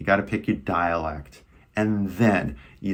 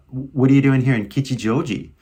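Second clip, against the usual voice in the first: casual Californian, higher and lively; higher-pitched casual California greeting; familiar California accent; 4 semitones higher, 5 dB louder than usual. Shown as a demonstration. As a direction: toss it out in easy California American English. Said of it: "use a familiar accent".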